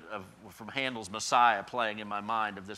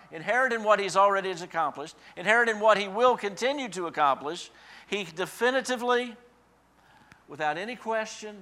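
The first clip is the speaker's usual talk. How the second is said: higher and louder litany of inherent, easing off on without; preaching build; 7 semitones higher, 5 dB louder than usual. Real, not acted. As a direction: stack each phrase harder. Repeated anaphora build.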